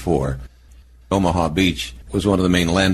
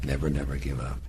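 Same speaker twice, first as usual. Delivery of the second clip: lower, softer British Churchill growl; Churchill accent; 5 semitones lower, 10 dB quieter than usual. Retold or imitated. Interviewer imitating Churchill's motto, low British accent. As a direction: drop into a British wartime-leader accent. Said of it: "In that accent".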